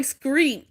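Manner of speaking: "screet" said with an sk sound and a rolled r; says screet for street. Retold or imitated. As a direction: copy his "screet" for street. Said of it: "Like he said screet".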